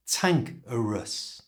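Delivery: "tank" said clearly and stressed, "a rus" light, a bit slow. Shown as a demonstration. Teacher showing the stressed part of cantankerous. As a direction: hit "tank" then relax into "a rus". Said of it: "so say it really clearly".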